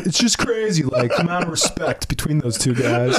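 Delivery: hammed-up emotional outburst, easing down; mock crying. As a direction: start high, overly emotional. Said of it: "I started crying".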